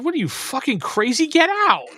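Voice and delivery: retold shout at the customer; mock angry yell. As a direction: throw him out in a mock yell. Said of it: "Reaper Brian looked at it and said".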